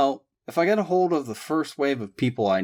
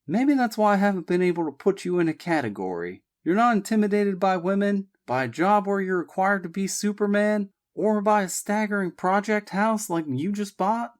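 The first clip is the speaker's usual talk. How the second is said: serious tone; 8 semitones higher than usual. A narrator's reading. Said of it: "Sean admitted in a serious tone".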